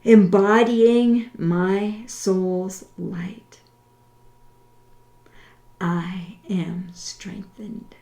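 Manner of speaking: slow, deliberate, over-enunciated prayer. Shown as a demonstration. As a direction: pray each line slowly, with long pauses. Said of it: "I will say it slowly".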